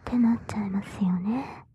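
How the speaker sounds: whispered right at the ear; right in your ear. Acted. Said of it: "耳元でささやかれると".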